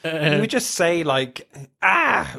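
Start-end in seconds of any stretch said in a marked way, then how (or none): 1.8-2.3 mock scream. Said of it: "scream out or something".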